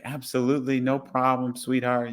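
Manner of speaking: lightly imitating a sweetly willing passenger; agreeable retold reply. Passenger agreeing to step off the train, sweetly obliging.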